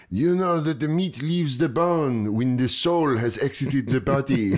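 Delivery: slow, eerie French chef voice; a slowed, ominous old Frenchman; older French butcher. Retold or imitated. Butcher lecturing the comic while chopping meat, slow and ominous. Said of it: "an older Frenchman gives you a life speech".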